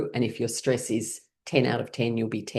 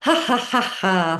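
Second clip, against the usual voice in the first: forced laughter; 5 semitones higher, slower than usual. Shown as a demonstration. Teacher leads class in laughter exercise, high laughing. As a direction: laugh it out on purpose, pitched up high. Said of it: "we're gonna do it with laughing".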